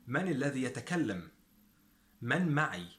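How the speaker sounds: من as short "man", معي as "ma'ee"; Standard Arabic pronunciation. Shown as a demonstration. Teacher gives the formal equivalent, Standard Arabic pronunciation. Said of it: "the modern standard Arabic".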